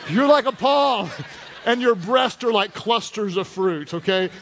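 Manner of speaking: reading the verse while laughing; can't keep a straight face on the verse; laughing through it. Real, not acted. Pastor laughing while reading to the church. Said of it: "And I'm like".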